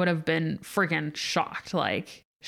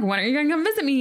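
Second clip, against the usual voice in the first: to her best friend, a mock petty whine; 7 semitones higher, much faster than usual. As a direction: nag a friend with playful pettiness. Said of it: "I was being a little petty bitch".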